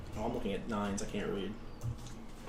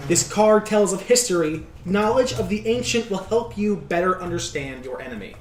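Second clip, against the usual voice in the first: lightly voiced solemn seer; fortune teller voice; 4 semitones higher than usual. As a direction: read the prophecy with gravity. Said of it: "I will read this to you".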